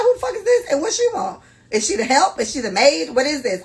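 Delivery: high, loud, incredulous questioning; high-pitched mock outrage; indignant disbelief. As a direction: fire off outraged questions about this woman. Acts out outraged reaction to other woman.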